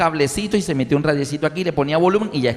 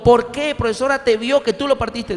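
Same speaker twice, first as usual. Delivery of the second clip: shocked mother; 7 semitones higher than usual. Retold or imitated. Mother asks teacher.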